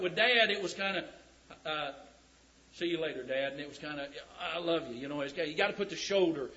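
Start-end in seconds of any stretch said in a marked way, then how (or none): 2.7-3.5 gruff manly goodbye. Retold or imitated. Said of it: "That's the masculine". 4.4-5.0 gruff manly I love you. Retold or imitated. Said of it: "That's the masculine".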